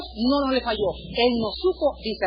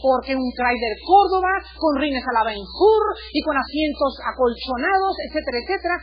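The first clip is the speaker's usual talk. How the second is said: mock prayer; 3 semitones higher than usual. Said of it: "Y me voy a concentrar".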